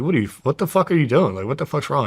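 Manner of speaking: making fun. Retold or imitated. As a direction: tease him with incredulous questions. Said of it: "making fun of him".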